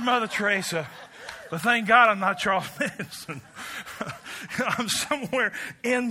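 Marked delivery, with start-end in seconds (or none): 1.6-3.4 laughing. Real, not acted. Own testimony, laughing. 3.5-4.5 a quiet unvoiced chuckle; soft breathy laugh. Real, not acted. Preacher chuckling softly at his own punchline to the congregation.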